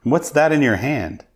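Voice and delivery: high, startled calling of the name; surprised recognition. Retold or imitated. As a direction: imitate an old dealer spotting him by surprise. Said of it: "He goes".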